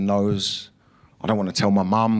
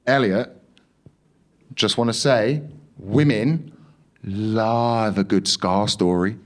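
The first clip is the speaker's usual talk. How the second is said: soothing nurse; slower than usual. Retold or imitated. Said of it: "trying to calm me down".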